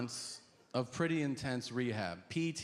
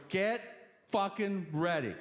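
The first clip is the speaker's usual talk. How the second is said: psyched to finally make the call; amped up; 6 semitones higher than usual. Retold or imitated. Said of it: "I'm so amped up".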